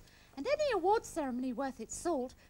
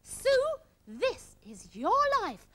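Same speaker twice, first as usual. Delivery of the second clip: Michael Aspel; 3 semitones higher than usual. Acted. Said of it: "Michael Aspel and his big red book".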